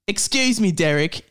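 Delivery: posh English voice for Rob; British accent. Acted. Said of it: "So that was British".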